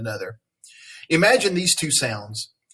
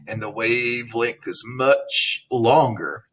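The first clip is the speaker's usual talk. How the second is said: usual speaking voice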